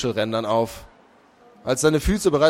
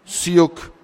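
strange clicking fish-creature voice, slightly higher; 4 semitones higher than usual. A narrator's reading. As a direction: click out the name like a sea creature. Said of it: "Mit seltsam klickenden Lauten sprach er".

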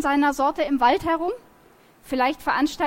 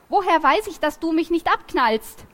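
indignant protest; 5 semitones higher, 4 dB louder than usual. Acted. Girl argues with armed boy.

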